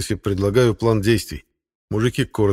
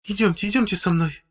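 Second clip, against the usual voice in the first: gentle; 12 semitones higher than usual. A narrator's reading. Nurse Katya gently leading the crying woman away. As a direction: coax her kindly to come. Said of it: "ласково говорит она".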